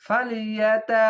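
careful Quranic reading; slow recitation. Shown as a demonstration. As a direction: recite ফালিয়াতা slowly. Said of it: "দেখেন".

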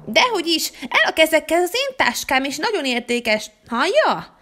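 guard her bag, bristling and snappish; snappy girl. Acted. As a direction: daughter snapping at the hotel lady to keep off her bag. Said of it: "nagyon harapos kedvében van a lánya".

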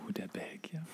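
breathy hushed whisper, like telling a ghost story; spooky whisper. Acted. Bartender recalling the infamous Belgian guest, in a spooky whisper. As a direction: whisper it with mock dread.

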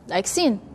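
"sin" light and soft. Shown as a demonstration. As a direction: say "sin" gently, not emphatic. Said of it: "this one is soft".

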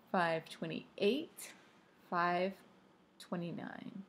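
very slow, drawn-out count; slow count with waiting pauses; suspenseful countdown. Acted. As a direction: drag out each minute. Counting tense minutes by watch.

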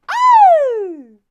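very loud high whoop; sudden loud high exclamation; high shouted oh. Acted. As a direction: throw out a big stage whoop. Vintage singer's flourish.

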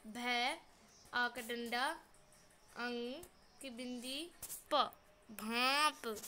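प, भांप drawn out slowly; slow spelling. Shown as a demonstration. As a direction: build भांप slowly, nasal आं. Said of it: "spelling out the word". (भांप धीरे धीरे जोड़कर बोलिए)

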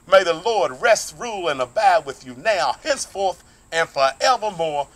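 slow, solemn blessing with a long drawn-out amen; benediction. Acted. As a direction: bless the congregation, stretching the last amen.

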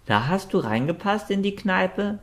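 high, surprised cat question; lightly voiced cat, astonished; surprised meow-voice. A narrator's reading. The cat asks the dragon, surprised. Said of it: "miaute Quektu überrascht".

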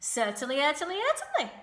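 loud, rising triple repetition; emphatic gander. A narrator's reading. Gander agreeing the rat may have the egg, emphatic.

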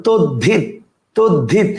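তদ্ধিত in two beats, "tod-dhit"; pronunciation demo. Shown as a demonstration. Teacher asking students to pronounce along, pronunciation demo. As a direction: sound out তদ্ধিত, aspirated dh. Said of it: "এবার উচ্চারণ করেন".

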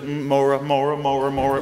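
put-on sing-song a child's eager calling; kids calling Mora.

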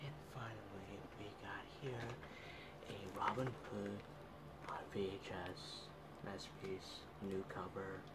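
hushed so parents can sleep; quiet at night. Real, not acted. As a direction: keep it low and hushed. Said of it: "because my parents are sleeping".

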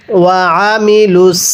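আমিলুস with ع pressed in the throat; throat-pressed ain. Shown as a demonstration. Teacher shows students how to press the ain in আমিলুস. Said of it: "আইনটা আমরা গলার মধ্যে চাপ দিয়ে পড়ব".

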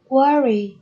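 "worry" with the weight on "wor"; first-syllable stress. Shown as a demonstration. Teacher repeating a word for students, stress on "wor" in "worry". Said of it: "nhấn âm tiết số một".

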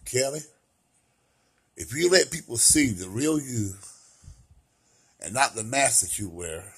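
lightly imitating a low soft voice; tender, quiet advice of a friend. Quoting best friend Ricky, low and soft. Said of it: "he talks in a low voice too".

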